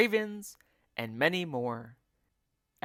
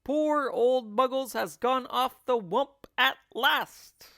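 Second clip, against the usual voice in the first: high, loud bird voice; mocking bird cry; roly-poly bird; 10 semitones higher, 6 dB louder than usual. A narrator's reading. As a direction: squawk it in a bird's voice. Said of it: "cried the roly-poly bird".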